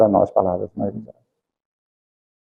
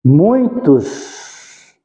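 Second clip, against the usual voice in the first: normal talking voice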